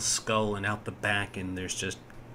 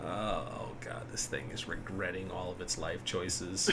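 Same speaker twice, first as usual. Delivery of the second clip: hushed aside whisper; 3 semitones lower, 8 dB quieter than usual. Real, not acted. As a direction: whisper it conspiratorially. DM whispers about monster.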